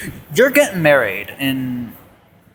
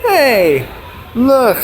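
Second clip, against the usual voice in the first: put-on kid voice; 6 semitones higher, slower than usual. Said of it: "Then I was like".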